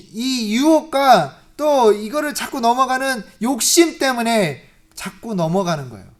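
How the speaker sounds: ordinary talk, nothing marked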